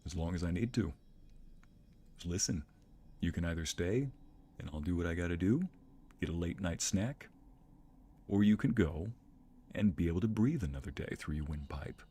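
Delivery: a hint of low quiet menace; menacing dog voice. Dog warns lurking creature, in quiet low menace. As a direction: threaten calmly and low. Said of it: "Thor's like".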